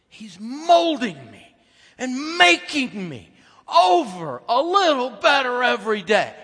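very loud, high, slow proclamation; loud, slow, high pulpit climax; preaching climax. Acted. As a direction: stretch it out at full power.

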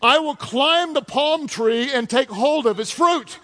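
slow, laughing read. Real, not acted. Pastor reads the racy verse aloud, laughing. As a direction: savour it through real laughter. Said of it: "He says".

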